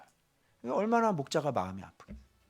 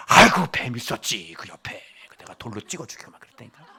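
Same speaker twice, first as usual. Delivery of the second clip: laughing grandpa; 4 semitones lower, 4 dB louder than usual. Acted. Grandfather tells grandsons how he killed the snake, chuckling. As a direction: tell it like a proud old man, chuckling. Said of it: "막 이러면서".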